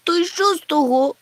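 high sobbing question. A narrator's reading. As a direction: sniffle the words out through tears. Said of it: "хлипнув він". (схлипуючи)

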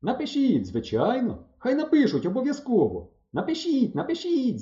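high, insistent cries; chorus of calls. A narrator's reading. Pioneers all urging the boys to write, calling out. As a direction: urge it in a lifted, eager voice. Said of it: "залунало звідусіль".

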